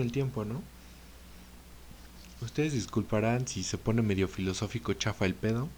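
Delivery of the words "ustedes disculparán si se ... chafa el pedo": with hiccups. Real, not acted. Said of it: "Perdón, tengo hipo".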